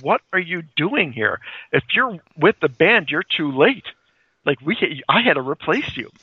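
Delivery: mildly indignant bride, emphatic swoops in pitch; mock-flustered telling-off; retold flipping out. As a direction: act out a touch of outrage. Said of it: "she starts flipping out".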